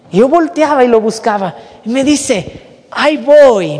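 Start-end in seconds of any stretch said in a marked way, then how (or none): 2.9-3.8 louder retold call; grito de llamada. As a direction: call it out as if to someone at a distance. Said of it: "me gritaba". (gritándolo para que lo oigan)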